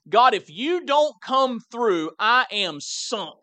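slow, emphatic plea to God; mildly desperate prayer, drawn out. Retold or imitated. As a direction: plead slowly, weighting each word. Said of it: "a progression to a little bit of desperation".

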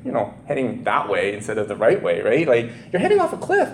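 imitating a loving plea to a friend heading off a cliff; mock loving concern. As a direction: coax them sweetly like a worried friend. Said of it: "very lovingly going".

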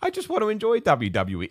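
mock self-pity, why is everyone so mad at me; exasperated whine. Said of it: "you're just a bit like".

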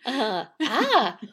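high and very loud cry; eerie loud cry. A narrator's reading. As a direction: cry out menacingly. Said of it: "cried the soba man".

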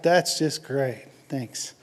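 slow, sinking deadpan; dry sarcasm. Retold or imitated. Complaining to God about the roaring ear, dry sarcasm.

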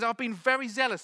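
high, loud imitated whine; whining. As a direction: complain self-righteously in a mock whine. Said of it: "and he just whines".

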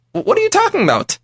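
very high stammered "what"; stunned question. Retold or imitated. Storyteller baffled by the rich man, pitch shooting up. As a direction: stumble over the words in disbelief.

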